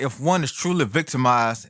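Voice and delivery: "truly" leaned on as the key word; stress on TRULY. Real, not acted. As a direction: put the emphasis on "truly". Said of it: "I really want to emphasize the word truly here".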